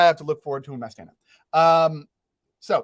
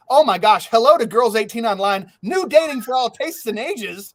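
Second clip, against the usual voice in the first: loud, gushing sponsor read, pitched higher; mock ad read; 5 semitones higher, 6 dB louder than usual. Host gushing over a dating site sponsor, hammed-up ad voice. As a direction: oversell it like a cheesy ad.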